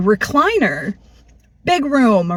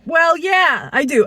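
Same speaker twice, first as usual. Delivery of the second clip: defiant shout; 6 semitones higher, slower than usual. Retold or imitated. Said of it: "Again, I'm a fighter".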